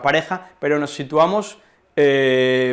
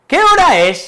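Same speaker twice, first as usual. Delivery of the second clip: "¿Qué hora es?" as a much higher, louder question; asking a question; 14 semitones higher, 10 dB louder than usual. Shown as a demonstration. Teacher demonstrating a question, "¿Qué hora es?", high. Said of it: "signos de interrogación cuando hacemos una pregunta".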